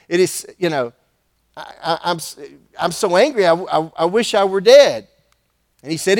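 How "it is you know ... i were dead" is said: flustered, halting angry rant; stammering anger. Acted. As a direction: stumble over the words, furious. Jonah stammers his anger.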